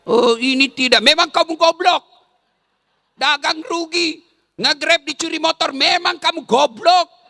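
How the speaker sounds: angry wife insulting her husband over losses; scolding spouse. Acted. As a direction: berate him as a fool. Scolding spouse, acted quarrel.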